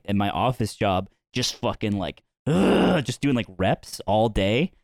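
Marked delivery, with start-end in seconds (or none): 2.5-3.1 higher, short effortful ugh; imitated straining grunt. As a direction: mimic squeezing hard. Imitates straining during office Kegels.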